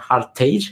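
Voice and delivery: Hartage ending like English "tage"; English-style pronunciation. Shown as a demonstration. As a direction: say Hartage to rhyme with stage. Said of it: "eu imagino que seja".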